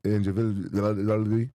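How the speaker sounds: "individual" drawn out very slowly, the l sound dragging; stretched stumble. Real, not acted. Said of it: "Say the word".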